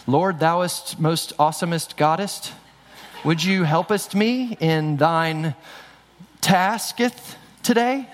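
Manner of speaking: slow, stilted mock old-English prayer; mock King James prayer. Pastor mocking showy prayer to his congregation, slow stilted mock King James. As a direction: ham up a fancy thee-and-thou prayer. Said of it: "speaking in King's Ja-, King James English".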